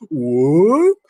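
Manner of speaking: mock Mario whoop. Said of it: "He doesn't even go".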